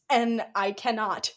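slow, spaced-out words breaking into laughter; slow amused exasperation; exasperated giving up. Real, not acted. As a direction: spell out your defeat slowly. Giving up in disbelief.

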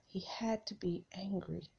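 unvoiced hushed line; whisper. Real, not acted. Preacher imagining Jesus's anger, softly whispered. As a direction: drop to a breath, intimate.

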